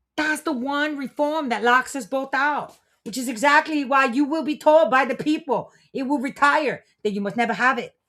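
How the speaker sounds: high, put-on Chinese accent. Speaker voicing China's side in a political bit, in an attempted Chinese accent. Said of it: "I tried to do the Chinese accent".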